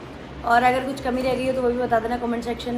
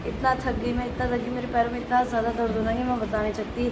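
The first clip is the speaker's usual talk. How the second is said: exhausted; 6 dB quieter than usual. Real, not acted. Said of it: "इतना ज़्यादा थक गए ना".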